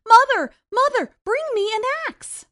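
high, loud urgent calls; calling out. Acted. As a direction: shout down for help. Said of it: "called out".

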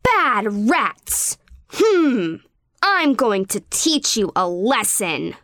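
mild scolding princess; a touch of cross, understated; angry. Acted. Princess Gato finding rat prints, mildly scolding. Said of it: "she said angrily".

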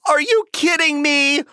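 high excited near-shout; can't believe his luck; amazed disbelief. Acted. Puppy amazed at chocolate gift.

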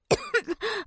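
pepper cough. Acted. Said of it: "好呛鼻子呀".

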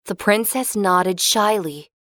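ordinary delivery, nothing marked

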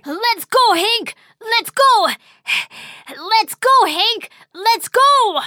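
loud high rallying shout. Acted. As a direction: cheer the crew on loudly. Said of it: "Pirate Kiki shouted loudly".

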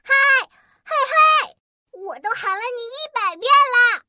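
high, shouting little fairy; angry shout. Acted. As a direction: yell it, high and cross. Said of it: "生气地对她大喊".

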